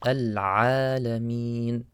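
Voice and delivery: "al-alameen" with a throat-squeezed ayn; throaty ayn. Shown as a demonstration. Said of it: "should come from the throat".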